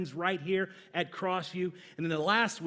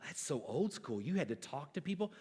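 mock young people; 6 semitones lower, 10 dB quieter than usual. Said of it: "All you young people go".

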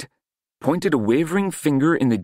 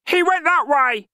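shouting. A narrator's reading. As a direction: yell it out across the street.

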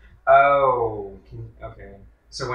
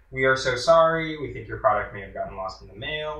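customer service voice. Retold or imitated. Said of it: "very customer servicey".

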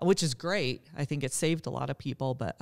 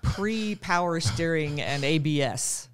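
lightly voiced old lady; creaky granny storyteller, lightly done; 4 semitones higher, 5 dB louder than usual. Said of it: "I'll put my old lady voice on".

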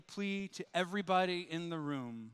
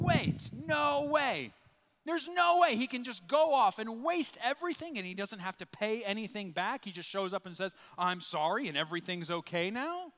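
indignant objection; 3 semitones higher than usual. Retold or imitated. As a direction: scoff at the unfairness of it. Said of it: "these guys are thinking".

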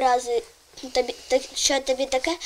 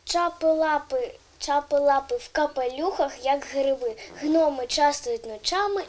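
put-on child reciting a learned verse; poem recital. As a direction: say the rhyme evenly, phrase by phrase. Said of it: "Лєра прочитає вірш".

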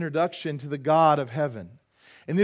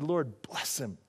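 soft blessing; 4 semitones lower, 8 dB quieter, slower than usual. Retold or imitated. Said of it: "And I just said".

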